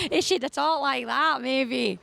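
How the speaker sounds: put-on Glaswegian Scots accent. Shown as a demonstration. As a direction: imitate Glasgow speech. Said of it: "you're so good at doing all the accents".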